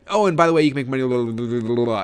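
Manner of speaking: imitating a scared seller, loud start collapsing into babble; nervous mumbling. Nervous seller suddenly pitching party guests, mock mumbling. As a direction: blurt the pitch, then dissolve into mock mumbled blahs. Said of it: "she starts mumbling".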